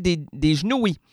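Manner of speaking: Sherbrooke accent. Shown as a demonstration. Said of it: "à Sherbrooke, on dit".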